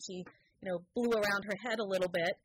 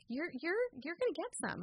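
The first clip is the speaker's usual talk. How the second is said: rocker dude; 10 semitones higher than usual. Retold or imitated. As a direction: play a laid-back eighties rocker.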